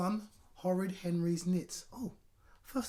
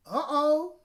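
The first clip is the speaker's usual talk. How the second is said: high, loud alarmed uh-oh; mum's alarmed uh-oh; 9 semitones higher, 10 dB louder than usual. Acted. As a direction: realise trouble is coming. Mum alarmed.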